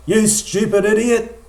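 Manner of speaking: loud, high, drawn-out mock road rage; acted angry yell. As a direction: yell it like an irate driver, stretching the words. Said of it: "The man yells out".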